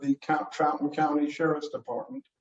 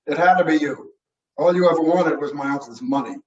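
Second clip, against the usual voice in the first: loud, mildly angry accusation; accusing; 5 dB louder, faster than usual. Acted. Nephew accusing his uncle's young widow, loud and accusatory. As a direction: hit it hard, pointing the blame.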